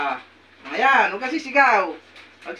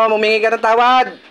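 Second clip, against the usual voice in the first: forceful command; 3 semitones higher, 6 dB louder than usual. Real, not acted. Healer making her ask forgiveness, forceful and loud. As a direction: demand it with full authority.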